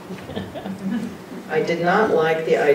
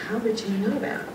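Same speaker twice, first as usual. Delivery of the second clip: higher-pitched, incredulous question; astonished question; 7 semitones higher, 5 dB quieter than usual. Retold or imitated. Friend amazed she knew about the paper, incredulous. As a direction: ask it in amazement, rising high.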